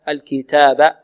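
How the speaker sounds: الكتاب with a puff of air on the t; whispered-breath ta. Shown as a demonstration. Teacher showing hams of the letter, airy ta. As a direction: let breath escape on the ta of الكتاب. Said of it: "همس التاء".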